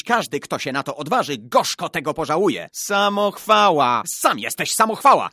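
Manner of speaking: put-on loud, high-pitched childish bickering; heated boys' quarrel. A narrator's reading. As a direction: hurl taunts back and forth at full voice. Escalating boys' quarrel in story. (głośna, zaczepna kłótnia chłopców)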